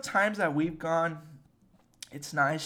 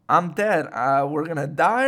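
panicked; 8 dB louder than usual. Retold or imitated. Panicked inner voice expecting death.

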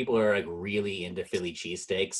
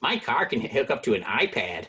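put-on Chicago accent. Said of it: "People from Chicago".

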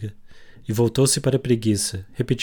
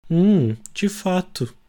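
indignant; 8 semitones higher, much slower than usual. Acted. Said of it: "disse a preguiça indignada".

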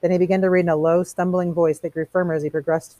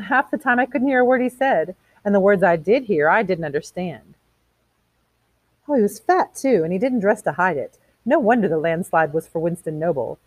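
lightly voiced chatty socialite, lively pitch; gossipy woman; 4 semitones higher, 3 dB louder than usual. Women gossiping to each other about the election, lightly mocking. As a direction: gossip dismissively about the candidate.

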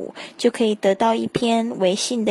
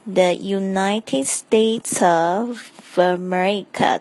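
the United States of America with of very light, words linked; weak of demo; 2 semitones lower, slower than usual. Shown as a demonstration. Teacher demonstrating the light of, slow. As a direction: let of nearly vanish. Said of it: "这个of的声音非常的轻哦".

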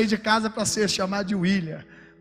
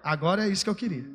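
relieved glory; 4 dB louder than usual. Retold or imitated. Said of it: "Ele fala até glória".

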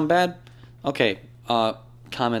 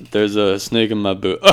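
laughing through it; 3 semitones lower, 6 dB louder, slower than usual. Pretend. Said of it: "there's be like".

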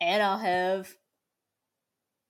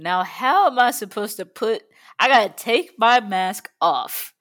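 loud; 9 dB louder than usual. Pretend. Confused safety demo, louder.

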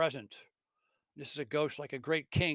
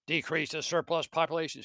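mocking echo; 3 semitones higher, 4 dB louder than usual. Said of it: "throws back at him Scrooge's own words".

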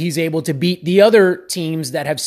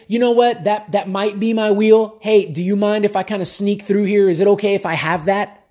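timid asking; 3 semitones higher than usual. Retold or imitated. Vlogger mocking a timid rider asking permission, meek and apologetic. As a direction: ask sheepishly, like you don't want to bother anyone. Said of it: "Or do we say".

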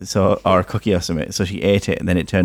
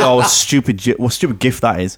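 high, laughing mock complaint; laughing mock fury; 4 semitones higher than usual. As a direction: laugh through the retold grumble. Dad imitating fuming colleague.

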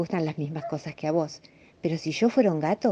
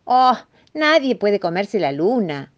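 slow, higher, louder rabbit; 4 semitones higher, 5 dB louder, slower than usual. Acted. Rabbit tells the mouse it is impossible, rabbit voice. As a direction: draw it out as a mildly incredulous rabbit. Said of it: "dijo el conejo".

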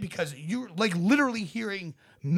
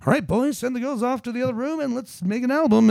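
louder, higher bossy rallying; manager voice; 6 semitones higher, 6 dB louder than usual. Retold or imitated. Brian Epstein ordering the band to work, bossy. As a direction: take charge like a manager. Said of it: "he was the one who was kinda like".

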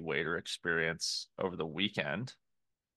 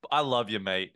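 matey put-on Aussie waiter; fake Australian accent; 4 dB louder than usual. Waiter making up with a customer, fake Australian accent. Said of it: "seemingly fake Australian accent".

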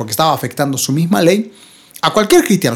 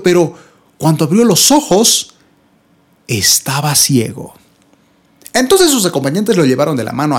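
dramatic Scripture reading; 3 semitones lower than usual. Acted. Preacher telling of Saul left blind three days, grave dramatic reading. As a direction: let each hardship land separately.

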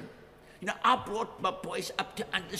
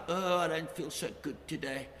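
1 self-pitying moan; 3 semitones lower than usual. Retold or imitated. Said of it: "they say things like".

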